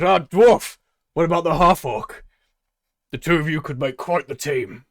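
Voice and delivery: high, loud hail; booming showman call. Acted. Tabaxi pairing the dwarf and half orc, loud and high. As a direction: sell the team like a ringmaster.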